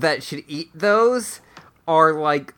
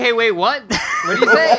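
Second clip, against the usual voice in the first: mock startled shout; 7 semitones higher, 4 dB louder, faster than usual. Acted quote of a character.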